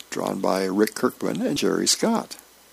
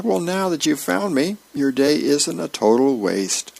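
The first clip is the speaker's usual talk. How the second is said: higher-pitched, lightly acted cheeky reply; breezy comeback; 6 semitones higher than usual. Lounging soldier answering the sergeant who found him, breezy.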